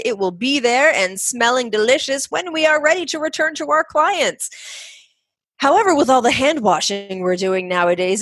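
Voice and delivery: lively podcast ad read with lilting pitch; sponsor ad read. Acted. Host pitching jojoba to massage therapists, animated ad read. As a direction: sell it brightly, pitch climbing on the key phrases.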